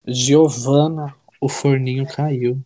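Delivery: slow drawn-out meme line; meme quote. Acted. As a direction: drag it out like the meme.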